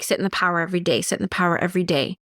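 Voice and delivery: quick, repetitive quoted instruction; imitating insistent teachers. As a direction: rattle it off like teachers repeating a rule. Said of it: "some teachers were saying to me, like".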